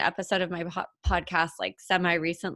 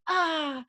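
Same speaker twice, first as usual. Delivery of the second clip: upset cry; 9 semitones higher than usual. Retold or imitated. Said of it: "getting all upset".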